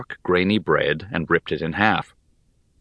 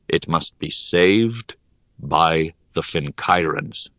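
put-on wise old teacher voice; 2 semitones lower than usual. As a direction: speak like a grave old sage. Cairpray speaks, low voice.

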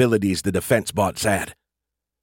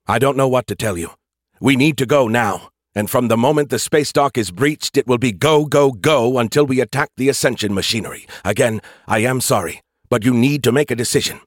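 higher, louder, tense and hurried; urgent AI voice; 3 semitones higher, 3 dB louder than usual. Acted. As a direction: press the urgency, a shade higher. AI character Skippy speaking.

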